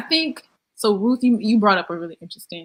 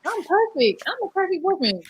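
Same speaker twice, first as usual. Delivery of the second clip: mock bragging; 10 semitones higher than usual. Mocking people who claim perfection.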